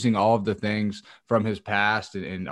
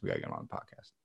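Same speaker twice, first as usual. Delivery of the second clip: much lower, joking deep repeat of the line; lowered, hammed-up announcer-style voice; mock deep voice; 13 dB quieter, much faster than usual. Shown as a demonstration. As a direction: drop way down for a goofy echo. Repeated in a put-on voice.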